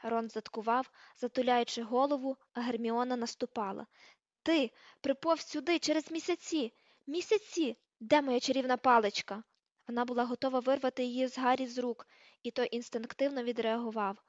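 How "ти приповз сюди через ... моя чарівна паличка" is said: incredulous, angry accusation; outraged scolding. Acted. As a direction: lay into someone with indignation. Hermione attacking Ron in rage.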